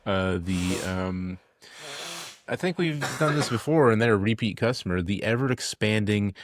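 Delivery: improvised sponsor read with mock-earnest pitch; hesitant announcer selling the absurd. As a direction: deliver a makeshift podcast sponsor spot.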